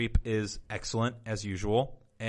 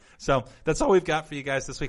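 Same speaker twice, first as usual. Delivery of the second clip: voice cracking mid-sentence, jumping up high; 7 semitones higher, 5 dB louder than usual. Wrapping up the podcast episode for listeners: voice cracking. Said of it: "Wow, voice crack".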